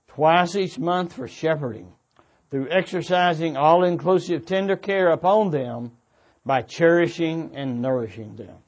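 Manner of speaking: ordinary talk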